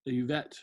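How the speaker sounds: "uvet" with the v said as a w sound; Latin v as w. Shown as a demonstration. Teacher showing students the Latin v, said as w. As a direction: say "uvet" like "oo-wet", v as w. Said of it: "I'm trying to pronounce that V, that W sound there".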